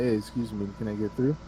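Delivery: polite request. Retold or imitated. Asking a neighbor politely to pass, softly. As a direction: ask nicely to get through. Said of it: "You could ask".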